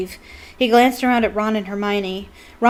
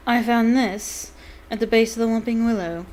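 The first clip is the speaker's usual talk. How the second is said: Snape voice; 3 semitones higher than usual. Acted.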